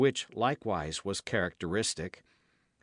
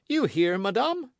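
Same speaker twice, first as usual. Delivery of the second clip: louder, insistent repeated taunt; pressing gloating king; 12 semitones higher, 7 dB louder than usual. A narrator's reading. King repeating his taunt to the queen, insistent. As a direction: press the question home. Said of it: "said the king, who enjoyed the embarrassment".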